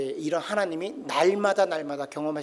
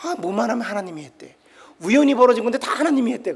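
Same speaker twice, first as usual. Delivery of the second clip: scoffing friends; 3 semitones higher, 4 dB louder than usual. Retold or imitated. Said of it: "세상 친구들이 뭐라 그래요".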